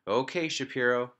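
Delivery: loud playful battle call; shout. A narrator's reading. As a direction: yell it up high like a pirate. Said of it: "he shouted".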